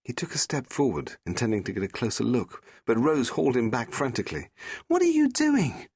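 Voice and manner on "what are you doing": high, loud alarmed shout; frantic cry. Acted. Rose pulling the Doctor back from the monster, frantic shout.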